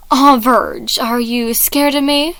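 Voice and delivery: taunting snarl, starting in a whisper. Acted. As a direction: sneer at the scared one. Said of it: "Logan snarled out".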